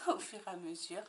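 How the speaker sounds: amused echo of her own words; laughing repeat. Real, not acted.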